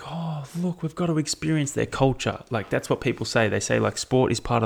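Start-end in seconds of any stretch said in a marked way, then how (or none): 0.0-2.4 a hint of a gushing tourist; English tourist. English visitors arriving in Australia, mildly gushing higher voice. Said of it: "England coming into Australia and being like".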